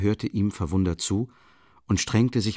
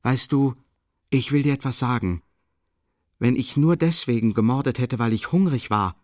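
a burst of eager enthusiasm; eager, a little higher; 4 semitones higher, 4 dB louder than usual. Acted. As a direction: lit up, eager to tell her. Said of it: "mit einer Art Begeisterung".

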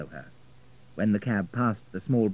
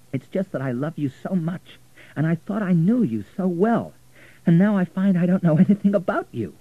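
high, loud, emotional confession; anguished pleading; 9 semitones higher, 6 dB louder than usual. A narrator's reading. Richard explaining his love to Florentina, anguished. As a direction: pour it out, pleading.

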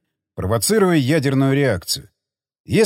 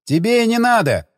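chuckling; 8 semitones higher than usual. Acted. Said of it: "усмехнулся Бурков".

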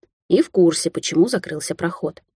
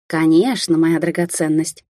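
sing-song; slower than usual. Acted. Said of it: "пропела рыжая".

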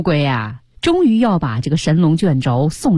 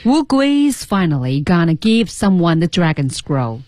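slow careful read. Shown as a demonstration. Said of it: "看第二句".

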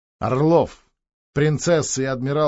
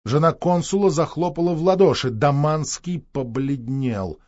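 ordinary delivery, nothing marked

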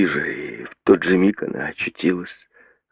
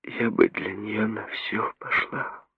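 slow breathy whisper; 5 semitones higher, 8 dB quieter, slower than usual. A narrator's reading. Mary whispering her devotion to her sister. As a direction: breathe it out slowly. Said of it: "прошептала Мэри".

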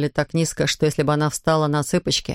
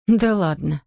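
scoffing; 2 semitones higher, slower than usual. Acted. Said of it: "хмыкнула Аника".

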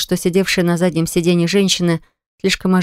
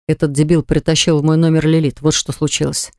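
growled; 2 semitones lower than usual. Acted. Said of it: "прорычал он".

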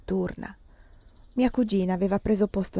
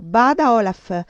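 stern warning; 2 semitones higher, 6 dB louder, slower than usual. Acted. The king warns Olaf.

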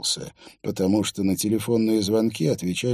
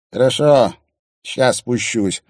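resigned sigh, slow; 6 dB louder than usual. Acted. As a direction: sigh it out reluctantly. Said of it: "вздохнул он".

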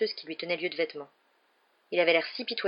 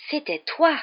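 higher, slowly dawning accusation; slow, suspicious accusation; 9 semitones higher, 5 dB louder, slower than usual. A narrator's reading. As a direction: let the realization land slowly. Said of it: "dit-il lentement".

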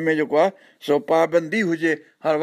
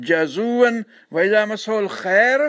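slow chanted recitation with a rising close; slow Quranic chant; 3 semitones higher, much slower than usual. Acted. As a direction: intone the verse slowly and reverently.

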